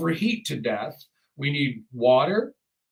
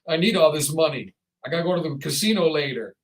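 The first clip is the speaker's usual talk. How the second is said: mock stingy excuse. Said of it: "You go".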